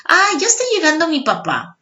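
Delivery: put-on a kid hearing dad arrive; excited child. Child recognizing parent's voice. (niño emocionado que oye llegar a papá)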